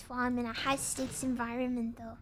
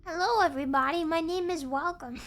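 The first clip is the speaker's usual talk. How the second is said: hammed-up greeting; 3 semitones higher, 5 dB louder than usual. Mock streamer greeting.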